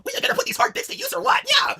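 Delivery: high lewd shout. Acted.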